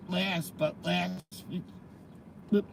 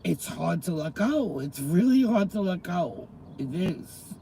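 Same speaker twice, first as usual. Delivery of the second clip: tearful; 3 dB louder than usual. Real, not acted. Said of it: "I'm crying now".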